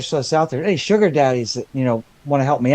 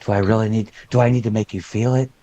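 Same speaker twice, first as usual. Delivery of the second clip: customer service voice; 3 semitones higher than usual. Pretend. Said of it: "get out my customer service voice".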